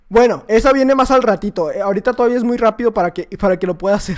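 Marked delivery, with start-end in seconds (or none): none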